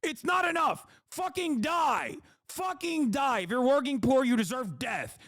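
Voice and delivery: high, shouted cartoon-villain rant; mock greedy billionaire. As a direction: scream it like a greedy tycoon. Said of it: "these motherfuckers are still like".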